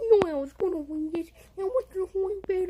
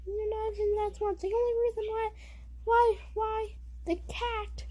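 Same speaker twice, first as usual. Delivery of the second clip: higher, taunting mouse voice; roasting as Jerry; 6 semitones higher than usual. Pretend. Jerry roasts Tweety in a battle, higher voice. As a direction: sass the bird back, higher.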